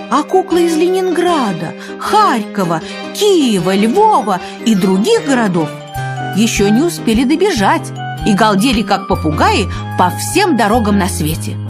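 usual speaking voice

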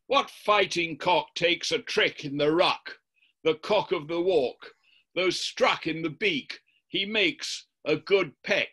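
the devil goads Florentino into a verse duel, lightly voiced; the devil's challenge. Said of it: "And he addresses Florentino like this".

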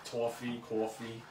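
Long Island vowels shown off word by word; Long Island "aw" in toffee and coffee; Long Island accent. Shown as a demonstration. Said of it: "that is my accent. I'm proud of it".

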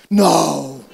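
loud, drawn-out mock disbelief; astonished disbelief. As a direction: imitate her stunned, booming reaction. Retold woman's disbelief at resurrection.

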